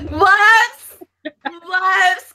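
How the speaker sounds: playful shout. Real, not acted. Guest shouting an apology for her joke. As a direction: yelp it playfully.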